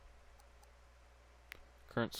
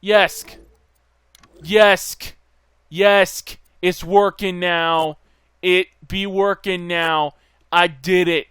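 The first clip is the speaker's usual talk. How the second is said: loud, punched celebration, pitched up; loud triumph; 5 semitones higher, 9 dB louder, slower than usual. Real, not acted. Player celebrating that it is working now, loud triumph. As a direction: crow over your success at full voice.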